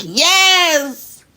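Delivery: high, loud yelp with a laugh; a laughing shout of triumph; triumphant yes. Retold or imitated. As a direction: cheer it like a winning moment. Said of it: "I was like".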